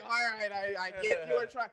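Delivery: mock pitying concession, kept soft and a bit high; resigned letdown. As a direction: softly let someone down, imitating disappointment. Imitating a disappointed star's concession.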